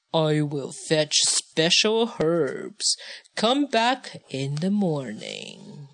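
slow, lightly voiced old sage; a hint of a calm old wise man.

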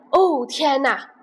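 zebra's alarmed cry; shocked cry. Acted. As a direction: gasp it out in dismay. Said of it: "斑马大叫起来".

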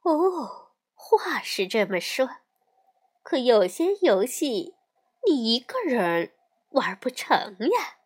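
mother calmly answering her upset daughter. Acted. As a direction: settle her down gently. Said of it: "熊妈妈平静地说".

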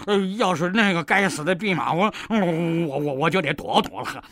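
stammering, nervous; a hint of a cowardly pig; scared stammer. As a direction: stutter out of fright. Pig demon stammers in fear.

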